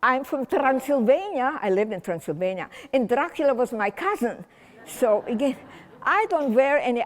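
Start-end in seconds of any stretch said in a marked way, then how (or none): 0.0-1.6 playful reveal. Retold or imitated. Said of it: "I say".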